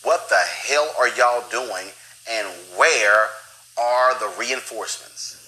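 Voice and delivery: loud, slow, emphatic mock yell; imagined TV yelling. Host voicing an officer yelling at the TV, loud and exasperated. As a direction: punch each word out slowly, as if yelling at the TV. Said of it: "had to be yelling at the T V going".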